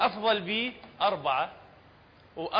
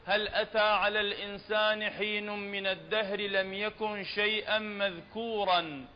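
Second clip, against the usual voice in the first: Quran recitation. Shown as a demonstration. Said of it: "فلا نقول".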